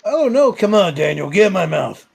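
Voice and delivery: high sugary coaxing voice; sweet creepy coaxing. Acted. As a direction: coax the kid in, creepily sweet. Creepy toy coaxing a kid.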